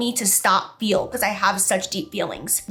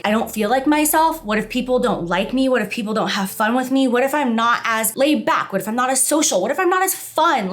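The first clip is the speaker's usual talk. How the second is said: retold anxious thoughts; 3 semitones higher than usual. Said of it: "I just bawled my eyes out".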